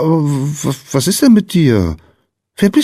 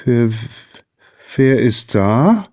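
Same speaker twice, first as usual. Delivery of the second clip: slow, hesitant question, pitched higher; higher, faltering child's question; startled stammer; 5 semitones higher, slower than usual. A narrator's reading. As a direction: stumble on the first word, then ask warily. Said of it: "stammelte Lina".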